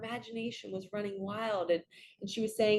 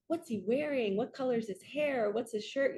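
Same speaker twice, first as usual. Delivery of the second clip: engaged curiosity; 4 semitones higher than usual. Retold or imitated. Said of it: "engaged with her imagination".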